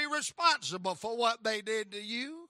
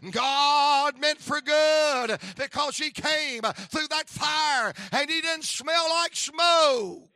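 slow, drawn-out cry that swells louder; preaching shout; 3 semitones higher, 6 dB louder, slower than usual. Acted. Preacher crying out to the congregation at the climax, loud.

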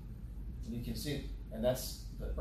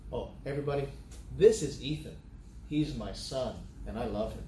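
third-person introduction; 2 semitones lower than usual. Shown as a demonstration. Father introducing his son to everybody, third-person presentation. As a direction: present your son to the room, "this" stressed. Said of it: "Third person and first person".

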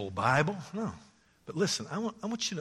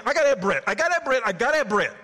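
pleading louder and higher each time; mock desperate craving; 11 semitones higher, 8 dB louder, much faster than usual. Preacher voicing people begging for bread. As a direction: beg for bread like you're starving.

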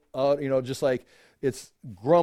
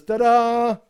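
mock fanfare; 8 semitones higher, 5 dB louder than usual. Preacher mocks self-praise.

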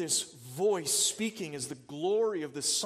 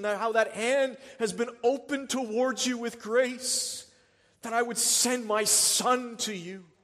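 a touch louder preaching as God the Father; the Father's voice; 6 semitones higher, 7 dB louder than usual. Acted. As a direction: lift it up, as God promising care. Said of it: "The Father's voice says".

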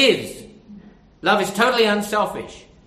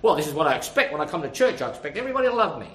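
mock self-centred; 4 semitones lower, much faster than usual. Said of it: "it's not something you say".

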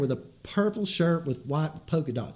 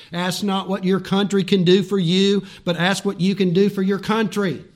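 louder, orator's cadence; quoting Kennedy; 3 dB louder than usual. Retold or imitated. Preacher quoting a president to the congregation, ringing. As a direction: proclaim it like a famous speech. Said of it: "Kennedy Junior said this".

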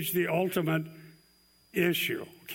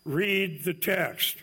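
stern professor command; much slower than usual. Retold or imitated. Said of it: "Doctor Versipa looks down and say".

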